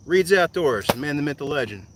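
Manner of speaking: loud, high hype-up greeting; hailing a friend. Real, not acted. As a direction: call out his name like a big introduction.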